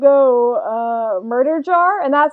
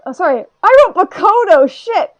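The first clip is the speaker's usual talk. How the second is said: flustered self-correction; 7 semitones higher, 8 dB louder than usual. Real, not acted. Notices own slip, then cracks up.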